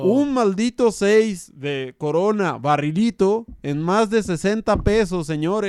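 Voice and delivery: mock outrage. Mock outrage over beer prices.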